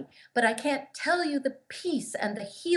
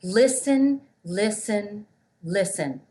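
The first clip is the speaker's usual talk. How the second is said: gentle repeated listen; 2 semitones lower, slower than usual. Retold or imitated. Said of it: "all he says is".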